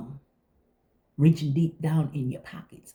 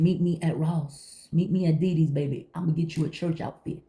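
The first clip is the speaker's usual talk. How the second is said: helpful friend offering; 2 semitones higher than usual. Retold or imitated. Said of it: "Instead of saying".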